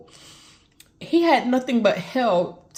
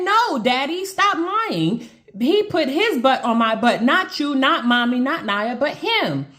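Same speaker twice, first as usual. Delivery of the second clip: put-on higher-pitched retelling of a child's denial; insistent child's protest; 4 semitones higher than usual. Mother retells daughter correcting her father, insistent higher voice. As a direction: imitate a child firmly correcting a parent.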